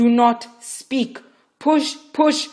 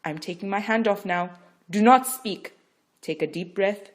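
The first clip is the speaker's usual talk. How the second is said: loud, insistent coaching; firm instruction; 3 semitones higher, 10 dB louder than usual. Acted. Midwife instructing Rachel, firm and loud. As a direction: steel her for the final push.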